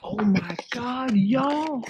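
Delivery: echoing off cave walls. Real, not acted. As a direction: voice ringing in a cave.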